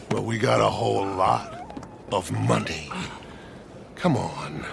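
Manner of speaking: low, hushed whisper; quiet conspiratorial whisper. Acted. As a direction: keep it secret and under the breath. Quiet scheming aside.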